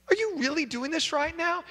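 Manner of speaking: high, incredulous wife; exasperated wife. Acted. Wife fed up with the husband, high and incredulous. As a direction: disbelief in every word.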